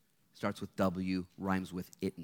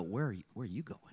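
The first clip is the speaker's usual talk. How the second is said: sincere question; 4 dB quieter, faster than usual. Retold or imitated. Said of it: "because you wanna know".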